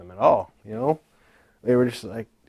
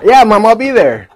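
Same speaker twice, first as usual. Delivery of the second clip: laughing; 9 semitones higher, 10 dB louder than usual. Retold or imitated. Agreeing to mom, laughing.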